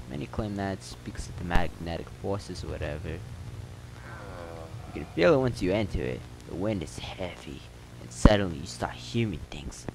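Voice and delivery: local telling a town legend in a lightly put-on accent; slightly acted storyteller; lightly voiced townsman. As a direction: spin the rumor as an in-game character.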